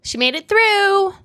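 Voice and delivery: high, slow emotional cry; proud words squeezed through tears; tearful relief. Real, not acted. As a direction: voice soaring, overcome by tears. Tearful about her younger self.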